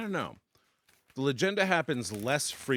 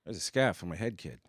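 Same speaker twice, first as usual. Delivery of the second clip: put-on light Boston accent, head scarf; a Boston guy griping at a kid; 3 dB louder than usual.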